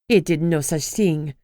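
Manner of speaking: put-on a heavier French accent, protesting; thicker French accent. Ex-wife defending Rain, French accent thickening. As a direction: lean harder into the French accent as she protests. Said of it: "her French accent thickening".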